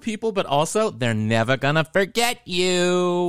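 high, loud, hammed-up proclamation; theatrical flair. Host urging listeners to be memorable, theatrical flair. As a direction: draw out the last words with a grand flourish.

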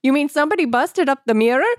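high hammed-up Italian accent; mock Italian shopkeeper. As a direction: squeak it out like a cartoon Italian grandpa. Partini voice.

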